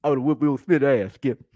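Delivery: imitated boastful sports pundit; Shannon Thorpe. Pundit telling Skip he'd whoop Will Smith, imitation voice. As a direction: brag in a put-on pundit voice. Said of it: "I'm Shannon Thorpe".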